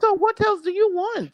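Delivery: insistent repeated challenge; emphatic repeat. Real, not acted.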